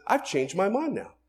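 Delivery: a hint of God changing his mind; lightly voiced God declaring; God's voice. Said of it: "God sees that and says".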